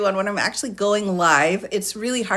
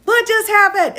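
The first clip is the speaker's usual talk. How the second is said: imitating confused family; 12 semitones higher, 5 dB louder than usual. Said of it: "they're like".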